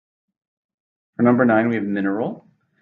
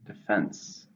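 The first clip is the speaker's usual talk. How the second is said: "Defense" stressed on FENSE, softly; soft citation of "Defense", weight on the last syllable; stress on second syllable; 5 dB quieter than usual. Shown as a demonstration. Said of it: "stressed in the second".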